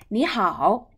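你好 short, with 你 rising as second tone; first changed to second tone. Shown as a demonstration. Teacher models the changed greeting, second tone on 你. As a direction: lift 你, then dip 好. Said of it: "change the first into second tone".

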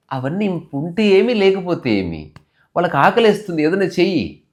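insistent husband. Retold or imitated. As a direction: press the point in a mock domestic quarrel. Acted household quarrel over food. (పట్టుబట్టి వాదించే గొంతు)

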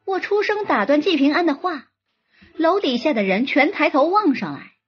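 ordinary delivery, nothing marked

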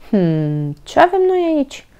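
a cranky badger sizing up intruders; grumpy badger growl. A narrator's reading. Badger confronts the hiding children, grumpy growl. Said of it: "mărâi un bursuc arțăgos".

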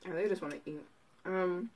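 eating between words; talking while chewing. Real, not acted. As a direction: mouth partly full. Seen 1: Bit chicken just before; handles chicken, mouth appears busy while speaking.

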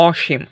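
অসীম with অ as an open "aw"; open O sound. Shown as a demonstration. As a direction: say অসীম as "aw-sheem". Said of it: "অ চলে আসতেছে".

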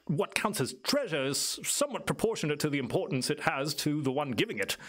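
lightly voiced island native, musing and lilting; knowing island elder. Island native tells visitors about the guardian, musing and lightly in character. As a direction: explain it as a well-spoken local guide. Game master plays Clyde.

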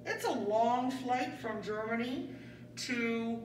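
a lightly voiced pretend airline captain; Captain Pigeon. Captain Pigeon greets the passengers, lightly voiced pilot. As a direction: play the pilot making his cabin announcement. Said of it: "Captain Pigeon is going to take over now".

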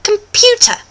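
"computer" in careful mock British; proper British pronunciation. Shown as a demonstration. Host shows Canadians properly, British "computer". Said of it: "properly is how I'm gonna show you".

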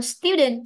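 "student" with the first syllable stressed. Shown as a demonstration. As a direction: hit STU in "student". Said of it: "trong ấm nó rơi vào still". ("student" nhấn vào âm tiết đầu)

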